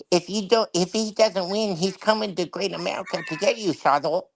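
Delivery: high lisping boxer impression; Mike Tyson voice. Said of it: "Mike Tyson voice".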